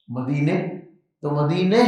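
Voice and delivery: مدینے with final e, imala. Shown as a demonstration. Teacher showing imala in everyday Urdu. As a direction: stress مدینے, ending in e. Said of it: "یہ امالہ ہے".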